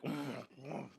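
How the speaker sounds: very high, loud mock whine; whining son. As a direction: plead like a son caught red-handed. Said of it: "I'm like".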